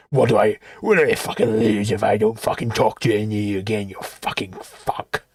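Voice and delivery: low sneering mock voice fading into a whisper; sneer, then hiss the last words; mocking Dave. Mocking Dave's arrogant voice.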